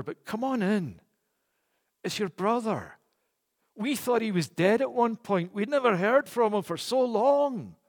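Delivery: pleading father. Acted. Father begging his resentful elder son to join the feast, tender plea. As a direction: gently beg the sulking son to come in. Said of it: "he's beseeching, he's imploring, he's begging".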